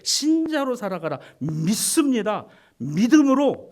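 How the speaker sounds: high and loud, then slow; mock wrong command. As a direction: proclaim it with mock grandeur.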